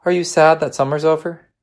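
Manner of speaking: high-pitched motherly question; concerned mother. Acted.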